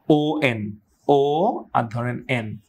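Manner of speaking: "O" and "N" said as separate letters; broken-down pronunciation. Shown as a demonstration. Teacher splitting the word for learners, "O" plus "N". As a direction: stretch "O", then add "N". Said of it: "মিশিয়ে দিয়ে উচ্চারণ করেন".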